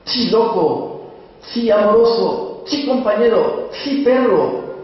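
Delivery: high, slow, uneasy calls to the dog; half-frightened calling. Acted. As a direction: coax the dog while scared. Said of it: "entre sotil y asustado".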